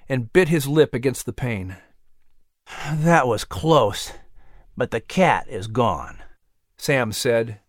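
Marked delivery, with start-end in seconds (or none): 2.9-6.2 slow, sinking, relieved words; nervous relief. A narrator's reading. Sam easing the tension after the shot, slow relief. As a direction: let the breath out as you say it. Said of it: "exhaling in nervous relief".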